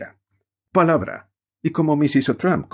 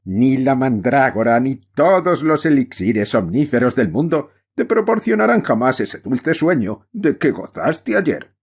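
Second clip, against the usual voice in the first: loud, higher tragic declamation; howled lines; 5 semitones higher, 4 dB louder than usual. Acted. Actor Climax playing Iago on stage, howling the lines. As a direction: bellow the verse like a ham actor. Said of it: "aulló Clímax casi en mi oído".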